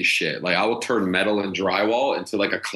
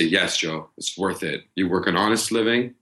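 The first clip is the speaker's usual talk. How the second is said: hoped-for reassurance. Retold or imitated. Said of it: "hoping and praying ... say".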